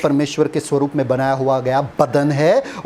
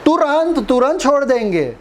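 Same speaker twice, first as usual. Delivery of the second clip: higher, mock-incredulous; scornful high तुरंत; sarcastic exclamation; 9 semitones higher than usual. Real, not acted. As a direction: scoff at how quickly they quit.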